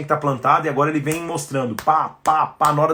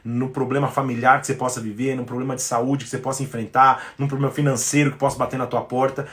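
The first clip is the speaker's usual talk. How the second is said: ordinary delivery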